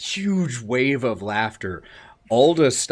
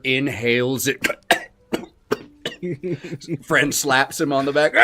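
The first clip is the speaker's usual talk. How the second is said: ordinary talk, nothing marked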